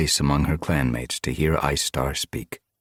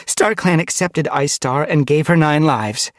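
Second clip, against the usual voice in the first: raised, high announcing voice; unhesitating declaration; 10 semitones higher, 4 dB louder than usual. A narrator's reading. Frost Dawn reassures the gathered clan, unhesitating. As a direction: declare it firmly to everyone. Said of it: "Frost Dawn didn't hesitate".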